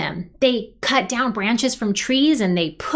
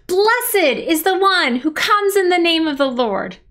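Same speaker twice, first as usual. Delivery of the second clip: high, raised call of praise; crowd shouting; 4 semitones higher than usual. Pretend. Leader rallying whole families at home, shouting praise. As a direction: lead the children in a joyful proclamation. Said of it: "Shout it with me".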